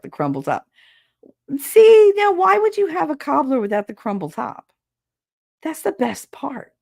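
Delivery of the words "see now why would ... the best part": mock outrage. Real, not acted. Outraged at cobbler without topping.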